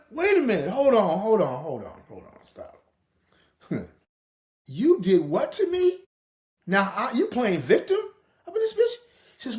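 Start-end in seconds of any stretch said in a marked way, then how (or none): 0.1-2.8 panicked hold on, dying away; frantic pleading. Retold or imitated. Pleading with girlfriend on phone. 4.7-8.9 laughing outrage. Retold or imitated.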